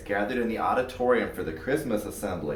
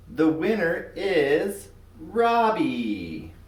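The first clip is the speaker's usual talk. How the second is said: slow announcement; 4 semitones higher, much slower than usual. Acted. Teacher announcing winner.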